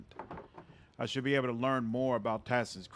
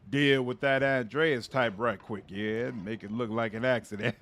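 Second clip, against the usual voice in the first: a hint of a gangster henchman; mob goon voice. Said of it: "Mob Goon voice".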